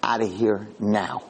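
low, slow, drawn-out command; slow stern warning. Retold or imitated. Retold angel ordering the soldiers out, slow and stern. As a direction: lay down each word like a final warning.

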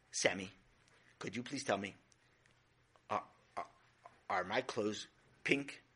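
quietly dreading the answer; ominous calm. Acted. Mother realizes paint on her.

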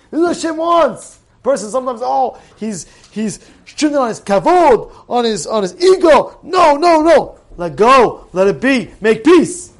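punchy sermon delivery; forceful preaching. Acted. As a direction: urge the congregation firmly. Exhorts listeners to make peace.

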